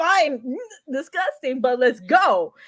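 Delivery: acted grossed-out tone. Imagining being told to take in a worm to survive: acting grossed out. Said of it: "I would be grossed out".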